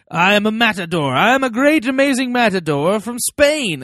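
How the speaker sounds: high, loud, proud proclamation; grandiose boast. Pretend. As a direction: boom it like a proud matador. Mock self-affirmation boast.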